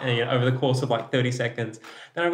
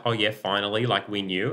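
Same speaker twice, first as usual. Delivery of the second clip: smug knowing. Retold or imitated. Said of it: "those arseholes who were like".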